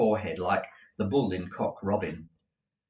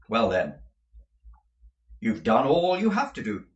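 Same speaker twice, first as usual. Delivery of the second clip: louder, clipped lawyer verdict; stern lawyer; 5 dB louder than usual. Acted. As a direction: close the matter firmly. Jaggers to women.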